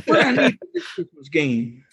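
laughing through a mock street punk line; street punk impression. Retelling the punk's line to co-hosts with a laugh. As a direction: repeat the punk line, cracking up. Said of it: "so stereotypical street punk".

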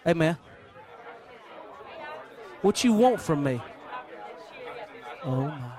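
soft, low awestruck wonder; awed. Acted. Blind beggar meeting Jesus face to face, hushed awe.

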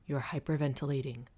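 slightly low, softened, steady voice; composed, quiet authority; calm but firm. A narrator's reading. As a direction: state it evenly to steady someone panicking. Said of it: "his voice calm but firm".

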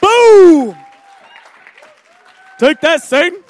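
triumphant taunt. Real, not acted. Pastor celebrating a win over Satan, loud taunt. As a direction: punch the air and gloat.

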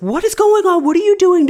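put-on high, loud yell at the kid; retold yell. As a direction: bellow it like the angry dad. Husband yelling at kid.

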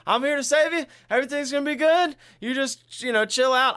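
imitated exasperated reassurance; mock rescuer. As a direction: call it out over someone's screaming. Acting rescuer shouting to captive.

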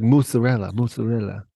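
mock her Italian mozzarella twice; imitating Danielle. Mimicking Danielle's party pitch, mock Italian mozzarella. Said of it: "She was like".

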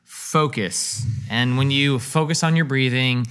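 slow calm voice. Shown as a demonstration. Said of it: "What am I doing?".

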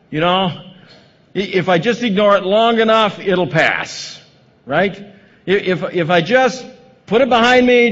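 a hint of Mary, lightly voiced, shrugging it off; Mary's inner voice. Voicing Mary's denial.

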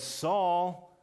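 calling out loud and high, rising on the second Saul; voice from heaven calling. A narrator's reading. The heavenly voice calls down to Saul on the ground, loud and high. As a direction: call him by name from above, insistent. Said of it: "and a voice says".

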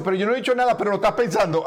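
whiny complaint of a quarrelsome woman; nagging woman. Retold or imitated. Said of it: "como las mujeres peleonas esas que dicen".

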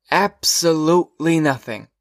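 put-on drawn out like a fussy old teacher. A narrator's reading. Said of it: "he said over again".

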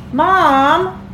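high, loud, drawn-out whine for Mom; moaned. A narrator's reading. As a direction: wail for your mother, put-upon. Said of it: "moaned Arthur".

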